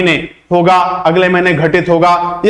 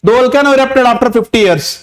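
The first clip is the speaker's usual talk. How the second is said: slow example sentence; 4 semitones higher, much slower than usual. Shown as a demonstration. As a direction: read each word out slowly and clearly. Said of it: "examples के जरिए मैं आपको समझाना चाहूंगा". (धीरे-धीरे साफ़ पढ़ा गया उदाहरण वाक्य)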